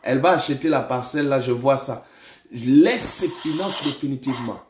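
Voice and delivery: firm, emphatic command; deliverance preaching. Real, not acted. Prophet orders a spirit out of the caller, commanding preaching.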